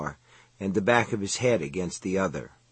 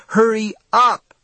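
screamed; 10 semitones higher, 7 dB louder than usual. A narrator's reading. Woman urging the trapped kid on, screamed. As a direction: scream it out, stretching the words in desperation. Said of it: "the woman screamed again".

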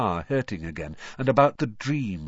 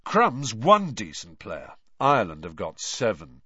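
curt; 4 dB louder than usual. Acted. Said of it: "said Charlie shortly".

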